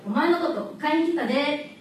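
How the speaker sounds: Osaka dialect. Retold or imitated. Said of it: "大阪の友達は救急車が通った時にいつも".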